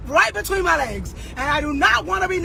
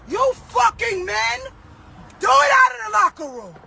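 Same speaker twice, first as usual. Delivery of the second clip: furious yell; 6 semitones higher than usual. Real, not acted. Yelling at men who enter locker rooms, furious. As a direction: spit each word at them.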